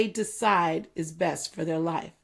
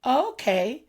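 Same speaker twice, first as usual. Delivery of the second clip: accepting okay; 4 semitones higher than usual. Retold or imitated. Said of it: "the words that my friend taught me".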